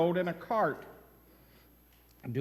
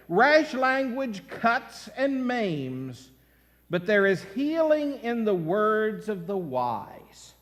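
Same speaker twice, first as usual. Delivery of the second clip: scripture reading; slower than usual. Acted.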